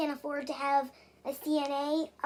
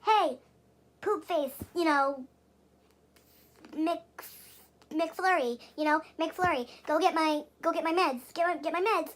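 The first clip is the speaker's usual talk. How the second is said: demo dog command. Shown as a demonstration. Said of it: "you have to differentiate, you could say".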